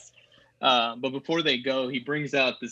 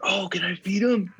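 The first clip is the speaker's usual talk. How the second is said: put-on naive kid; 7 semitones higher than usual. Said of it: "Very naive".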